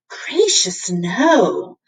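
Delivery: lightly voiced cat, startled; a touch of a flustered cat; cat shying away, mild alarm.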